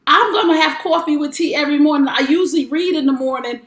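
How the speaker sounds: lightly voiced gushing big sister; imitating excited sister. Big sister raving about the show on the phone, mild excited imitation.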